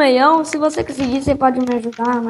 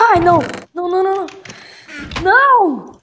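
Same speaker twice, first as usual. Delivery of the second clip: frantic high cries of no; panicked yelp as the enemy hits; panicking gamer; 4 semitones higher than usual. Real, not acted. Chased by mob in game.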